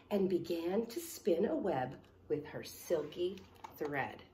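measured picture-book narration; story reading to children. Acted. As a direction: read the story out clearly for kids. Reads picture book aloud.

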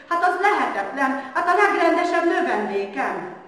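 teacher aghast at his best pupil; gasping disbelief. A narrator's reading. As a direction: sputter it out in shock. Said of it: "levegő után kapkodott".

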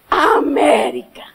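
slow choked-up America; tearful. Real, not acted. Speaker relives first stepping into America, slow tearful. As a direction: let the word break with emotion. Emotional climax, jumping over line.

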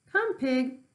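high, loud farmer's call; a farmer coaxing a pig with slops. Acted.

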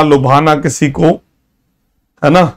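usual speaking voice

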